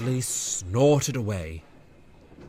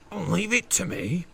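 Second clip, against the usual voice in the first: smiling; 9 semitones higher than usual. Acted. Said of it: "Bear smiled".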